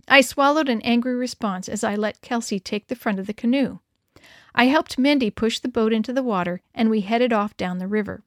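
usual speaking voice

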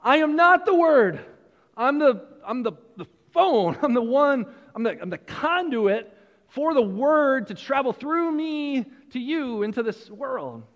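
adamant John the Baptist. Acted. Preacher voicing John the Baptist to the congregation, adamant. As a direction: insist like the prophet who is only the voice. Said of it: "adamantly saying".

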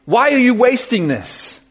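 mock scold her. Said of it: "And they scolded her".

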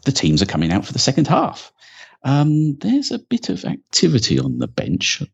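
lightly hammed-up live match call; mock football commentary.

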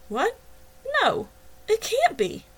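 high, loud shocked cry of disbelief. A narrator's reading. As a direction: gasp it out as the news hits. Shocked at news of death.

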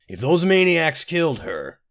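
loud, high, drawn-out threat; angry. A narrator's reading. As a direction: burst out in anger, cut off mid-threat.

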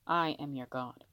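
low, soft mumble; mumbled through teeth. A narrator's reading. So only Izuku could hear, low mumbled boast. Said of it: "mumbled through his teeth so only Izuku could hear".

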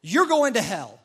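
God condemning the sinner, stern and loud. Retold or imitated. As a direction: hand down the sentence like a judge. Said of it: "And he says".

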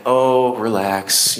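a mild soothing "relax"; gently coax, as if rocking a baby; soothing baby talk. Shown as a demonstration. Parent calming a baby, lightly soothing. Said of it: "like you're rocking a baby".

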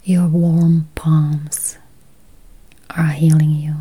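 ordinary talk

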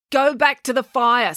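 snappish, drawn-out command; snapped. A narrator's reading. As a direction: order them off firmly. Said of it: "snapped Georgia".

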